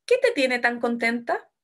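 asking, voice lifting at the end of "contenta"; entonación de pregunta. Shown as a demonstration. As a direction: ask "¿Qué te tiene tan contenta?" with a final rise. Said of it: "usé un signo de pregunta". (tono de pregunta, "contenta" sube al final)

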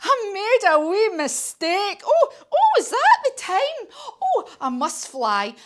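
high, loud, flustered excuses; spluttering. A narrator's reading. Scared dragon makes excuses to escape beast, flustered panic. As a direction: blurt it like a panicking cartoon dragon. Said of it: "he spluttered".

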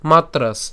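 "মাত্রাস" closed firmly on a final s; ending on s. Shown as a demonstration. Teacher showing where to stop, "মাত্রাস" ended on s. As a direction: say "মাত্রাস", stopping right on the s. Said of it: "এই দন্তাস্ব পর্যন্ত আমরা উচ্চারণ করছি".

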